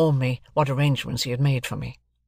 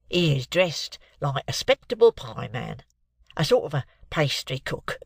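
nervous client Mike. Acted. Mike describes his witness to the lawyer, congested. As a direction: answer haltingly through a cold.

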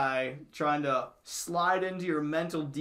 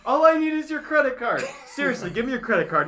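infomercial shout; 9 semitones higher, 7 dB louder, faster than usual. Retold or imitated. Infomercial parody.

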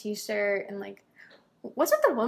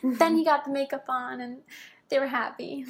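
higher-pitched, lightly imitated Texas accent; 3 semitones higher than usual. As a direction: put on a touch of a woman's Texas accent. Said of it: "her Texas accent".

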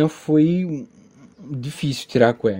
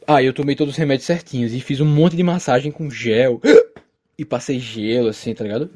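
talking through hiccups; hiccupping between words. Real, not acted. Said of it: "Desculpa aí pelo soluço".

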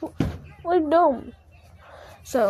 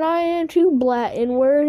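higher-pitched mock insistence; imitated protest; 4 semitones higher, slower than usual. Friend arguing back that he is black, imitated protest. Acted quarrel over being black.

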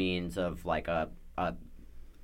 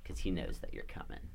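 ominous low voice; 10 semitones lower, 10 dB quieter than usual. Acted. GM ominous description of Dispater.

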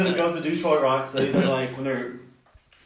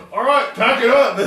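mock resigned; 10 semitones higher, 8 dB louder than usual. Gene giving up.

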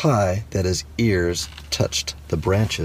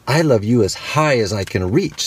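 little hare; 3 semitones higher than usual. Acted. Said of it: "said Little Nut Brown Hair".

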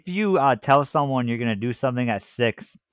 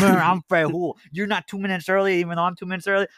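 mimicking Fred; 3 semitones higher than usual. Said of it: "I'm just mimicking Fred Hool".

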